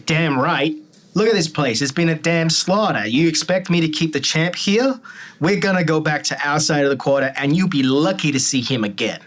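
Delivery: loud, brash fight promoter; brash manager. Acted. Manager berating the captain, loud brash voice. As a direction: bark it out like an angry manager. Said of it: "George gets up ... and goes".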